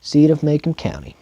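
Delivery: steady audiobook reading voice; story narration. A narrator's reading. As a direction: read it like a novel narrator. Reads novel aloud as narrator.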